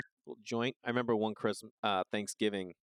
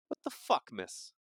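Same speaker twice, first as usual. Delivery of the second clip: mock outrage; slower than usual. Mock outrage at listener letter.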